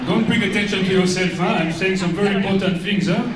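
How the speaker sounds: put-on thick comic French accent, vowels and r's Frenchified; fake French accent. Comedian as French coach Jean-Pierre thanks host, in mock French accent. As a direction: play an over-the-top Frenchman mangling English. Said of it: "you can probably tell from my accent".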